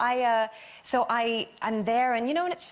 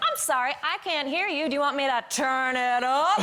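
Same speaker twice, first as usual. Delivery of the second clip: mock politeness; 3 semitones higher than usual. Acted sarcastic retort in insult exchange.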